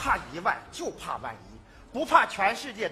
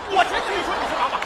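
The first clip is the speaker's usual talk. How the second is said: loud protest; 9 semitones higher, 6 dB louder than usual. Acted. Protesting innocence, loudly.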